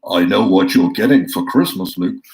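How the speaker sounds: hint of a menacing Vader, mostly his own voice; Darth Vader impression. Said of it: "my, uh, Darth Vader impersonation".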